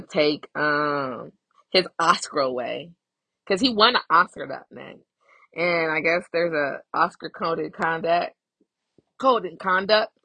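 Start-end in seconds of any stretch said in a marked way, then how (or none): 5.6-10.1 talking through hiccups; hiccuping mid-sentence. Real, not acted. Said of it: "I got the hiccups".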